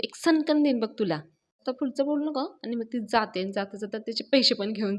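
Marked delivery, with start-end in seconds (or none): 0.0-2.4 higher-pitched mock threat; imitated angry threat. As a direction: retell her snapping threat with raised pitch. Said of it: "मी चिडते आणि म्हणते".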